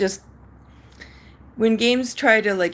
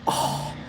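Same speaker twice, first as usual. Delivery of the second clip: imitated pained "oh"; cringing groan. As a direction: groan like someone cringing hard. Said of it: "cringing hard".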